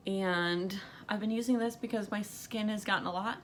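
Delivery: breathless, gasping between words; talking while short of breath. Real, not acted. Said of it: "super out of breath when I'm talking".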